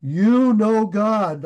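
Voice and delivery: slow, drawn-out mock call; a milder imitation of the man's holler; imitated yelling. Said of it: "he's still yelling".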